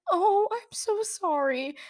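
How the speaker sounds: high, drawn-out sympathy; sympathetic. Retold or imitated. Bystander to crying birthday girl, sympathetic. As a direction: imitate a bystander cooing in pity, slow and high.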